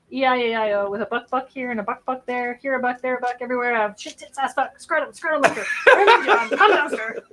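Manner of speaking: giggling out the swears; laughing while reciting; laughing through rude lyrics. Retold or imitated. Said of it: "a Tourette's syndrome chicken".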